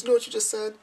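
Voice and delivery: high, loud astonished question; incredulous sister. Retold or imitated. Sister asks the speaker about the slip, high and incredulous. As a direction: pitch it right up in disbelief.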